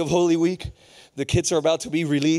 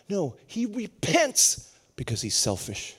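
ordinary talk, nothing marked

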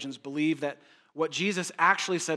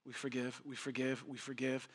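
softer, intimate, repeating; soft repetition; 3 semitones lower, 11 dB quieter than usual. Acted. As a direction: drop your voice and let it sink in. Preacher repeats key phrase softly.

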